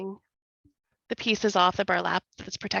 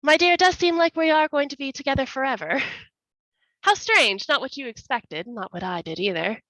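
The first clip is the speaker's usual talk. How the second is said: mocking taunt; 6 semitones higher, faster than usual. Villain taunts walled-in man.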